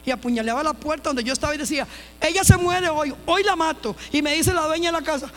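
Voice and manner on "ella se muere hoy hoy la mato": mock murderous threat, raised and louder; retold threat from the woman at the door; threatening woman. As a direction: voice the knife-wielding woman's threat. Knife attacker threatening at door.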